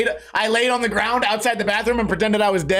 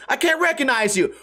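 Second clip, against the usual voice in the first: higher, puzzled retelling of "I can't recognize you"; imitating a confused tweaker; 6 semitones higher than usual. Retelling what the tweaker shouted, lightly imitated. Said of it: "they're like".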